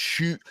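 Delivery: "chew" as in CH O O, start of British Tuesday; "chew-", choo; British chew sound. Shown as a demonstration. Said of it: "C H O O sound".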